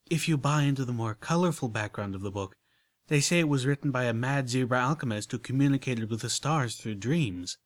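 lightly voiced, relishing a juicy bit; gossipy refined lady. Rarity telling the book's lore to Applejack, lightly gossipy. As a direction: share it like gossip, a hint of Rarity.

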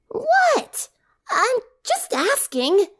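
high cocky tomboy voice; mock innocent. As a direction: play dumb after the jab. Rainbow feigning innocence.

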